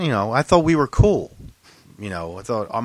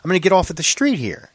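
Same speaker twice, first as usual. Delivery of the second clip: retold pleading; 6 semitones higher than usual. Acted pleading argument with the cop.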